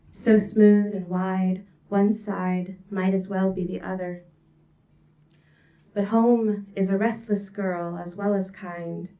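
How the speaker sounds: measured, lyrical poem recital; poetry reading. Acted.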